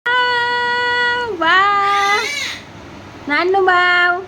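put-on high, sing-song teasing coo to a little girl; baby talk; talking to a child. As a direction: coax the child playfully in a high voice.

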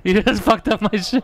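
high, slow mock outrage breaking into laughter; mock pissed-off, laughing. Streamer cracking up while voicing the ruined player, mock pissed-off. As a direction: imitate his protest through laughter. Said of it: "He's pissed. He's like".

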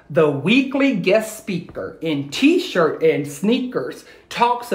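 put-on rhythmic read-aloud for kids; lilting rhyming storyteller voice; story narration. A narrator's reading. Teacher reading a rhyming story to her class, lilting.

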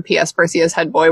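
flat read, zero feeling in it; deadpan, no emotion. Shown as a demonstration. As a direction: read it like a bored memo. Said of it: "with, like, absolutely no emotion whatsoever".

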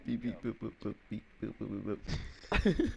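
high squeaky robot beeping; robot beeps. Pretend. Beeps to dodge the question.

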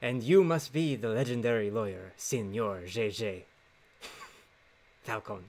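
put-on lightly Spanish-accented noble voice. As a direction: play a suave Spanish prince. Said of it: "commit to the Spanish accent".

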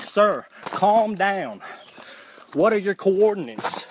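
calm operator. Retold or imitated. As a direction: drag it out like a patronizing dispatcher.

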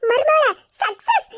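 gleeful laugh. Real, not acted. Mother gloats to daughter-in-law.

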